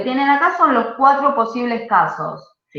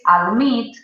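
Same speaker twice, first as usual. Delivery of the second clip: adMIT, with the last syllable stressed; stress on second syllable; 2 semitones higher than usual. Shown as a demonstration. Teacher contrasting with visit, admit stressed on the second syllable. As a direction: lean on the MIT in admit. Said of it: "recae en esa segunda sílaba".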